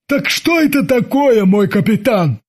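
high, eager sidekick voice; a lightly high-pitched henchman asking his captain; curious sidekick calling his captain; Babs voice. A narrator's reading.

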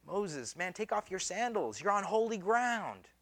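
hushed, lightly voiced divine command; imitated voice of God. God calling Moses from the burning bush, hushed imitation. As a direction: speak softly as a voice from the bush. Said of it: "a voice comes out of the bush".

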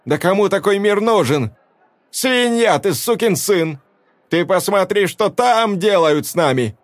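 woman accusing Olaf before the crowd; furious accusation. A narrator's reading. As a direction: tear into him.

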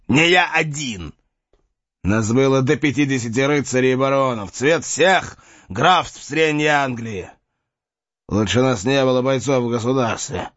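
put-on angry, proud old knight; defiant knight. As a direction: justify yourself with pride. Knight defends himself.

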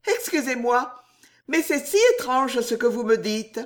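high, breaking into fits of laughter; laughing helplessly at the idea of a husband. A narrator's reading. Juliette mocks fidelity to Jacques, shrieking with laughter. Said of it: "en riant toujours".

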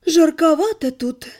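drawn out. Acted. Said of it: "протянула".

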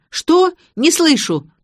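high, loud shouted reply; shouting. Acted. Garik yells back that he can't hear, loud.

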